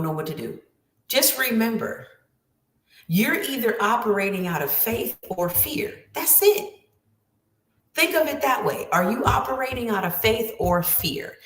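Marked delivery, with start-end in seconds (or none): 6.1-6.7 breathy whisper, pitched up; whispered aside. Real, not acted. Telling listeners the simple rule, in a whisper. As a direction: lean in and whisper it. Emphatic aside after key point.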